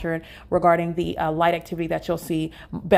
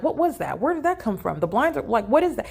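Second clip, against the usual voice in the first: higher, uncertain imitation of startled people; mock confused alarm; 4 semitones higher than usual. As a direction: mimic hotel guests unsure what they saw. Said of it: "They're not even sure if they saw it".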